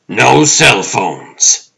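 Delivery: high, loud, slow insistence on NO CELL PHONES; paranoid roommate. Acted. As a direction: lay down the rule loudly and slowly. Roommate voice, then calmer answer.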